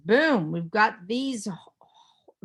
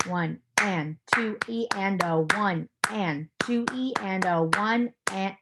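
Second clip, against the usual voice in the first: rhythmic counting. Shown as a demonstration. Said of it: "I'm gonna count it out".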